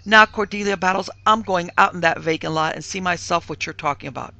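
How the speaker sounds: loud, emphatic declaration; firm exasperation. A narrator's reading. Mistress to maid before inspecting lot, exasperated. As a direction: announce it forcefully, brooking no argument. Mistress resolves to see for herself.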